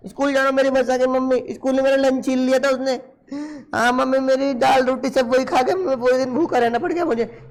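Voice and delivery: lightly voiced whiny schoolboy; boy telling his mother about the bully, mildly whiny; complaining child. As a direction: tell mummy your lunch was snatched.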